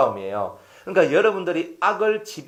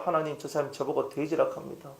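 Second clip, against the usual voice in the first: humble prayer; 3 semitones lower, 9 dB quieter than usual. Acted. Acts humble prayer to God.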